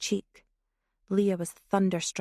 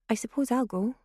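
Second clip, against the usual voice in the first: put-on resigned, slightly higher girl's voice; reluctant agreement; 4 semitones higher, faster than usual. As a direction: give in with a mild sigh of reluctance. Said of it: "glanced around nervously".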